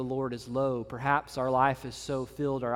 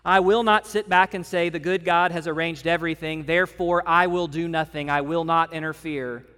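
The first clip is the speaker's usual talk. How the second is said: lightly voiced detective, louder declaration; a hint of a proud Poirot; 3 semitones higher, 6 dB louder than usual. Poirot declaring to Hastings, lightly voiced and proud. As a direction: proclaim it with mock grandeur. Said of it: "Poirot makes this great statement".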